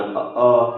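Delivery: अ, अ voiced from the throat with a felt buzz; throaty vowel demo. Shown as a demonstration. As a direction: say अ, अ deep from the throat. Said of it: "कंठ उच्चारण फिर आप पूरा पढ़ना".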